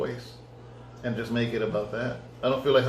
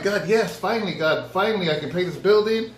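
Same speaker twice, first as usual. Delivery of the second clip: mock eager excitement; 5 semitones higher than usual. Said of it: "and I'm like".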